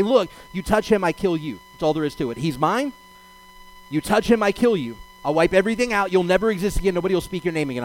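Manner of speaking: paraphrased divine threat, firmly delivered; acted warning with punchy short phrases; stern warning. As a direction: lay down the law, mildly heated. God's threat to Laban, acted.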